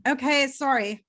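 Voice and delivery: hoarse after coughing; dry throat. Real, not acted. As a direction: talk past a dry, tickly throat. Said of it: "such dehydration that it's dry throat".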